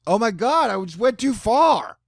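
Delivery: high, slow, squeaky gasp at himself; a sudden high mortified cry after oversharing; embarrassed squeal. Real, not acted. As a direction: yelp like you just shocked yourself. Catches himself after crude joke.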